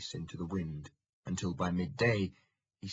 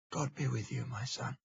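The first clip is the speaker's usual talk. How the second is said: monk's greeting; 5 semitones higher than usual. Acted. Monk speaking through gate hatch.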